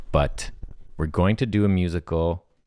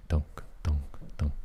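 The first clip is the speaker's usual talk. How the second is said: vocal beat; 3 semitones lower, 7 dB quieter than usual. Acted. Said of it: "And then music starts".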